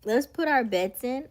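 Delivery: loud slow announcement. Real, not acted. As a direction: announce it loudly. Announcing bets.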